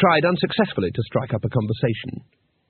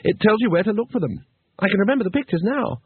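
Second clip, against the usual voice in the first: Two Flower; 8 semitones higher than usual. Acted.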